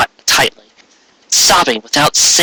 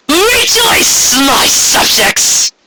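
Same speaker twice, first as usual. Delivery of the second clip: much higher, slow ringing proclamation; Corona calling out; much slower than usual. A narrator's reading. Tyrant queen hovering over Ponyville, high calling proclamation. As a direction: call down to the whole town from above. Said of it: "Corona called".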